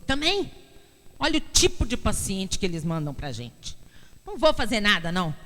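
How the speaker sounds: imitating an irritated doctor; mildly acted exasperation. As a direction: play the doctor fed up with a patient. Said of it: "esse médico ficou muito nervoso".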